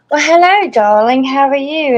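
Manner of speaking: high, sing-song posh hello; mother's fancy greeting. Retold or imitated. Mom greeting her grown child in a fancy high voice. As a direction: greet like a grand lady, lifted up. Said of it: "talking like this".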